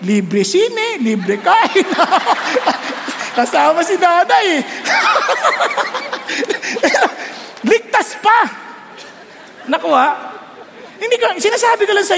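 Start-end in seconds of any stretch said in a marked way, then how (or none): 1.9-3.3 amused laugh. Real, not acted. Laugh at own joke. 4.7-7.6 high breathy laugh. Real, not acted. Laugh at own joke.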